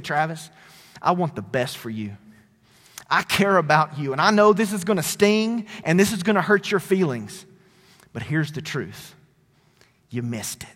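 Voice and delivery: a friend's tender honest word; gentle loving rebuke. Retold or imitated. Godly friend gently rebukes Travis.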